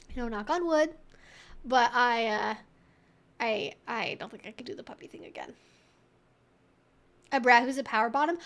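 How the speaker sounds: normal talking voice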